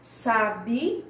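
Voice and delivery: "Sabiá" broken into drawn-out syllables; stressed-syllable demo. Shown as a demonstration. Teacher shows pupils the tonic syllable, syllable-by-syllable stress. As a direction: say "Sabiá" syllable by syllable, leaning on the strong one. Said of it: "aquela sílaba que vem mais forte na nossa pronúncia".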